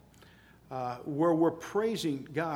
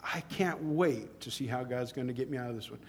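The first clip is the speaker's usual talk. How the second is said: quiet retelling; 3 semitones lower, 6 dB quieter than usual. Retold or imitated. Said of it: "And he says".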